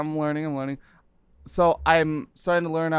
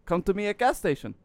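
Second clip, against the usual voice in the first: put-on Russian accent; 4 semitones higher than usual. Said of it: "that's actually pretty close".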